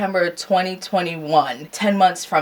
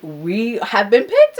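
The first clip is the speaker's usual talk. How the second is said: drawn-out, higher announcement; retold good news; 5 semitones higher, slower than usual. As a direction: announce it slowly, savouring the news. Retelling the good-news phone call.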